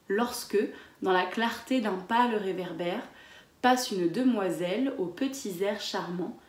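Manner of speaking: poem read to a class; poem recital. Acted. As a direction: recite the verse with care. Reads the poem aloud.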